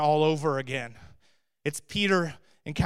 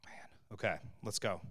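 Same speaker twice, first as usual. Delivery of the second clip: unvoiced whisper to himself; 7 semitones lower, 13 dB quieter than usual. Real, not acted. Preacher collects himself before moving on, whispered. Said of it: "whispered aside".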